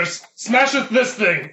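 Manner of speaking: slow, archaic command; mock-Shakespearean god; Thor voice. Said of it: "I'm gonna be Thor".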